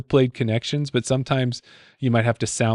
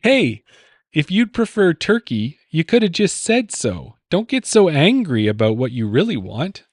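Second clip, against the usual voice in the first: higher, brisk read of the clue; first clue reading; 3 semitones higher than usual. Shown as a demonstration. Quiz host reading the clue to his co-host, pitched higher. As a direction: read the riddle out lightly raised. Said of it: "Say, say that question again?".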